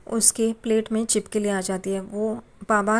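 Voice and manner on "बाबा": short sharp cry of Baba, mildly voiced; startled yell. Son startled by lizard in plate, calls father with a mild yell. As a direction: yelp the word out at the lizard. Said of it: "करके चिल्लाता है".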